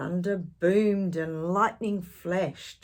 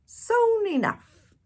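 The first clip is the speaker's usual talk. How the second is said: loud, very high slow echo; crew echoing; 7 dB louder, slower than usual. A narrator's reading. Crew echoing their captain, loud high chant. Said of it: "the crew repeated".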